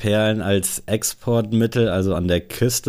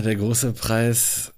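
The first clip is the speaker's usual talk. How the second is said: giggly guessing; 3 semitones higher, 3 dB quieter, slower than usual. Real, not acted. Guessing, half laughing.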